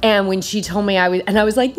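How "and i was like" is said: usual speaking voice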